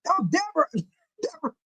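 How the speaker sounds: high, soft voice breaking with laughter; helplessly laughing the name out; cracking up. Real, not acted. Calling on Deborah while losing it, cracking up. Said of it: "I gotta pull myself together".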